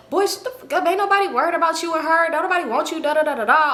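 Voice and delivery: imitated high-pitched dismissive comeback; heated arguing. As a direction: act out her telling him off, ending in nonsense syllables. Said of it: "they really getting into it".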